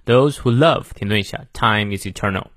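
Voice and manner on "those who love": "those who love" held open before a pause; phrase ends on "love", then waits; pause after LOVE. Shown as a demonstration. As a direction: stop briefly after "love". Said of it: "这里要停顿一下".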